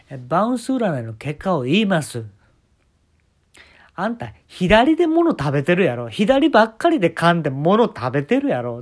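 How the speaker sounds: slow, loud, high pronouncement; fortune teller. Retold or imitated. The speaker announcing the bounce fortune, slow oracle voice.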